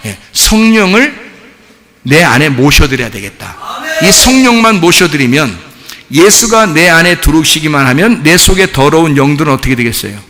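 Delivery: insistent exhortation with punched phrase openings; forceful preaching. Real, not acted. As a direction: drive each phrase home to the congregation.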